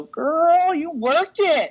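put-on high, sassy girl-you-worked-it voice; sassy self-praise. Admiring her own wedding photos, sassy high voice. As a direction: hype yourself up like a best friend. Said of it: "you look at and you go".

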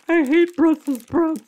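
high, disgusted picky eater voice; whiny picky eater. Retold or imitated. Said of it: "some people are like".

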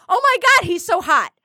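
high, gushing re-enactment; blurted out loud. Retold or imitated. Retelling her reaction at the elevator, blurted out loud. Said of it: "I just say it out loud".

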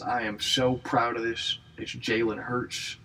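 lightly put-on coach accent, slurred S sounds; slushy "sh" for S, drawn out on the name; Nick Saban impression. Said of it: "doing that accent right now, that Nick Saban voice".

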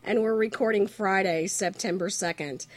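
hoarse from a cold, barely talking; sick voice. Real, not acted. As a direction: talk through a sore throat with a cold. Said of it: "I can barely talk".

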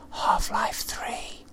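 slow breathy whisper right in your ear. Pretend. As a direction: lean in and whisper it like a secret. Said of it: "Come close while I whisper in your ear".

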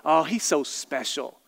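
syrupy fake praise; mock sweet Southern. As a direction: say it sugary, like a Southern put-down. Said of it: "Like in the South, we use the word special".

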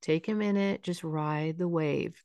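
quiet, gently sympathetic reassurance; verbal soothing. Shown as a demonstration. Parent comforting a child stuck in a freeze, soothing. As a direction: soothe softly, easing off toward the end. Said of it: "Any verbal soothing can be".

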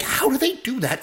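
high, wide-eyed marvel at the barn; amazed wonder. Retold or imitated. Telling his wife about the barn raising, amazed. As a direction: marvel aloud at the builders.

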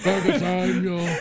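slow breathy villain impression; breathy Eddie Redmayne. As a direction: breathe every word out slowly. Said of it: "just the most breathy voice".

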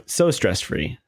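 dry sarcastic stress-free. Acted. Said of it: "I'm sarcastically saying stress-free".

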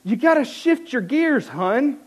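sugary talking-down tone; condescending advice. Retold or imitated. Older woman cyclist patronizing the struggling rider, condescending. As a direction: talk down to him like a child. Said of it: "in about the most condescending way".

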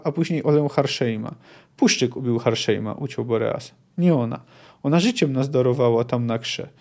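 lightly voiced dialogue inside a read-aloud passage; story narration. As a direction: read the scene aloud, hinting at each speaker. Reads a novel passage with dialogue.

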